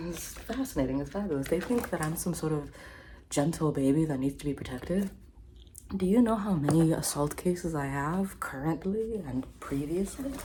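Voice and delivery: lightly put-on accent, smug and whispery; fake Johnny Depp impression. Comedian mocking a celebrity, smug fake accent.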